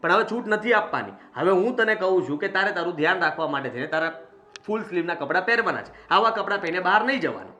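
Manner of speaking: angry scolding. Acted. Brother forbidding his sister short clothes, angry scolding. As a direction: lay down the law with some heat. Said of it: "તો તું ગુસ્સાથી શું કામ બોલે".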